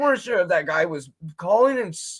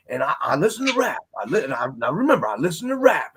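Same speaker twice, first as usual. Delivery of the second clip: put-on country accent; 5 semitones lower than usual. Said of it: "like, a country accent".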